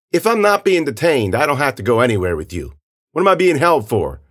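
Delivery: high, pressing protest; argumentative kid. Acted. Kid disputing his detention with officer, argumentative.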